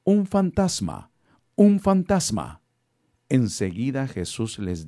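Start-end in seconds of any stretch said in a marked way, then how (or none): 0.0-1.1 high, slow scared shout; grito de miedo. A narrator's reading. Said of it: "Llenos de miedo, gritaron". 1.6-2.6 louder, high, slow terrified shout; grito de miedo. A narrator's reading. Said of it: "Llenos de miedo, gritaron".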